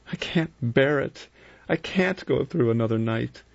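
high, slow and dreading; a young woman who can't face another night. Acted. Vera to the men, dreading the night, high and slow.

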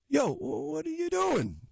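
put-on high, sharp angry boy's shout. A narrator's reading. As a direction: snap at him, outraged. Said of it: "Jaden said angrily".

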